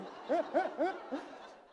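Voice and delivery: short real laugh; amused chuckle before the story. Real, not acted. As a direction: let a genuine laugh escape. Preacher laughing at memory.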